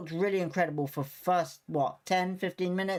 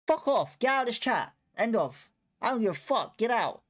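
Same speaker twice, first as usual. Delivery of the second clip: higher, heated swearing at a troll; real angry outburst; 5 semitones higher than usual. Real, not acted. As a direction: snap back at the chat, pitch up. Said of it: "I'm allowed to be upset".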